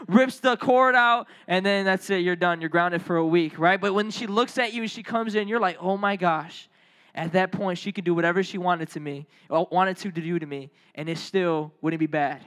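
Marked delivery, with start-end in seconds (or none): 5.8-6.7 low, sinking mock dread; deflated comic alarm; acted subdued dread. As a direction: say it low, as if doomed. Resigned dread under mom's look.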